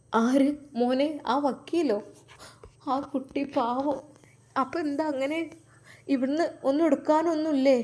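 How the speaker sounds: a mother gently asking her son what is wrong; old mother's voice. Acted.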